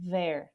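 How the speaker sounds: low "there" with a vibrating TH; voiced TH. Shown as a demonstration. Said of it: "dá aquela tremida nas cordas vocais".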